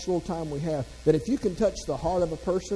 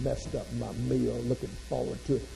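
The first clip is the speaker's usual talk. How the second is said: sulky pout; 4 semitones lower, 4 dB quieter than usual. Retold or imitated. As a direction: sulk over a spoiled meal. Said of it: "sit here and pout".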